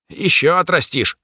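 high, mocking snort of a demon. Demon mocks the mage's lost hand, high snorting scorn. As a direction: toss it off with scorn. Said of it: "фыркнуло облако".

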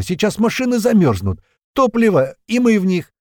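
high, loud panicked shout; panicked yelling. A narrator's reading. Kotleta yelling into the radio in panic, high and loud. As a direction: scream it into the radio, terrified. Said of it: "начал орать в рацию Котлета".

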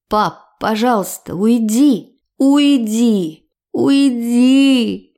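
pleading rising to a mild shout on the last "уйди"; building from begging to yelling; a narrated cry that swells with each "уйди". A narrator's reading. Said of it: "закричала в голос".

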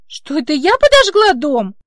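disbelieving repeat; stunned. Acted. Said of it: "ошарашенно переспросила".

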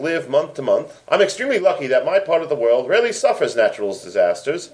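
reading a listener's letter in a hammed-up British accent. Podcast host reads British listener's letter aloud, mock British accent. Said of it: "try saying the word fellas in my accent".

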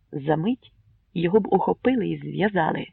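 ordinary delivery, nothing marked

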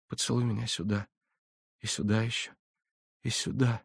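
softly asking for kisses; hushed and tender, lingering on each "сюда"; tender farewell. A narrator's reading. Olesya asks her beloved to kiss her goodbye, softly and tenderly.

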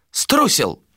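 high, contemptuous jab; spat accusation. A narrator's reading. Mate accuses the captain of cowardice, spat out. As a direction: spit the word out at him. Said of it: "выплюнул Йола".

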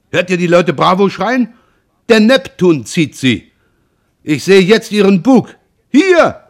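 high, loud, rising thrilled calls; excited commentary. A narrator's reading. Roland at the mast watching the liner leave, thrilled loud calls. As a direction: cheer the big ship on, building to a peak.

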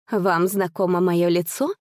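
ordinary delivery

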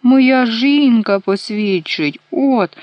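high, loud, slow cry; shouting. A narrator's reading. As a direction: shout it, stretching every word. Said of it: "крикнув карлик". (кричить високо, голосно й повільно)

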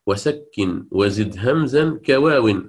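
slow chanted line of poetry; teacher quoting a poem; reciting verse. Shown as a demonstration. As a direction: recite the Shatibi verse slowly. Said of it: "قد قال الإمام الشاطبي".

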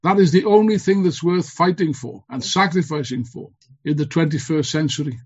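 rousing political speech, building to slogans; rally the comrades with fervor; fiery revolutionary speech. Acted.

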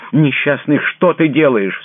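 high, loud, slowed cry of alarm; frightened cry. A narrator's reading. Princess crying out as he holds a revolver, terrified. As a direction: cry out to stop him. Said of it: "вскрикнула она".

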